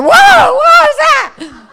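high, very loud yelp of alarm; startled shout. Acted. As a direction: act out jumping out of your skin. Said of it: "No, he probably like".

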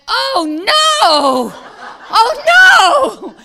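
high, loud alarmed cry with laughter; alarmed laughing cry. Retold or imitated. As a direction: shriek it half laughing in dismay. Leg suddenly too long.

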